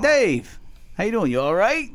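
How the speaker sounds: high, bright-pitched sing-song greeting; cheery all right greeting. Retold or imitated. Teasing Dave by repeating his greeting, high and sing-song. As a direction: pitch it way up like a chirpy hello. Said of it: "I was like".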